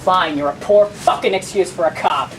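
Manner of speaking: loud, defiant retort; open insult. Acted. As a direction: say the insult out loud, punching the words. Insult repeated aloud when challenged.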